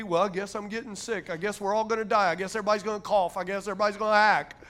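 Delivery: quick list of resigned complaints; mock defeatism. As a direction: rattle off the gloom like a doubter. Mimicking a defeatist resigned to illness.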